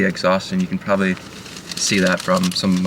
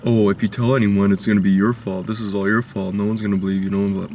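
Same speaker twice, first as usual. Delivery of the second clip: menacing creep voice. Retold or imitated. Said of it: "play that off to the underage boy or girl".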